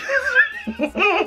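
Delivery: high cackling laugh at herself; burst of laughter. Real, not acted. Laughing at her own English accent for viewers. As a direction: crack up at your own joke.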